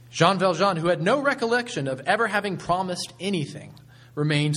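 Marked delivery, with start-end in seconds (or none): none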